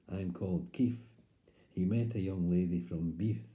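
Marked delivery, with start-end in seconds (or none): 0.1-1.0 "Keith" said "Keef"; impaired speech. Acted. Keith introducing himself, impaired "Keef". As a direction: end "Keith" on f instead of th. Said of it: "or as he said".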